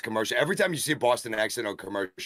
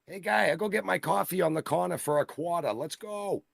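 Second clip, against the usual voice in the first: high-pitched, hammed-up South Boston guy; Boston accent; 10 semitones higher than usual. Showing off the accent to teach McCready, high hammed-up Boston accent. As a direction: put on a much higher voice with a thick Boston accent. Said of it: "We gotta teach McCready a Boston accent".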